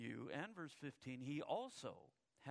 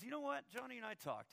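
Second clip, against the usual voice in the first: put-on sweet little girl; 8 semitones higher than usual. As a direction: play innocent to Grandma. Sally sweetly to Grandma.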